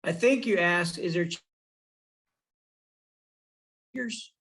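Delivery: breaking up on a bad call line; dropping audio, words cut mid-stream; choppy cut off endings. Real, not acted. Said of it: "Now you're cutting out".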